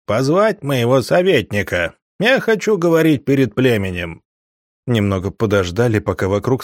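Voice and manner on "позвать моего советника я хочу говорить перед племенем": yelling. Acted. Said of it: "проорал".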